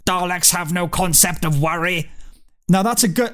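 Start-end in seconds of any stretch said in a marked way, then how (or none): 0.1-2.1 slow, stilted alien robot voice; Dalek. Retold or imitated. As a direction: declare it slowly like a killing machine. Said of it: "the Dalek says".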